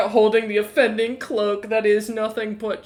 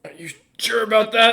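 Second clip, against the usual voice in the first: skeptical whisper; 3 semitones higher, 3 dB louder than usual. Acted. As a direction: breathe it doubtfully.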